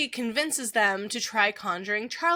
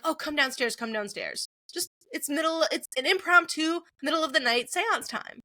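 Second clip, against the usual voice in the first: lightly acted eager summons; higher-pitched, mock-excited urging by the end; enthusiastic; 5 semitones higher than usual. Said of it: "she enthusiastically wakes up Peter and Steve".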